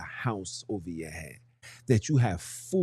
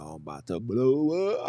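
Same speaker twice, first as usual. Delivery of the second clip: comic rising warning. Pretend. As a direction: let "blow up" climb like a siren starting. First take, sliding into comic wail.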